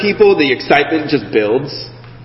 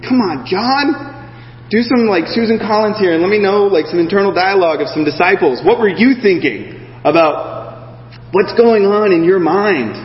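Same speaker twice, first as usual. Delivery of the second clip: mock plea to John; 3 semitones higher than usual. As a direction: nudge John to give us more. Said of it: "I'm like".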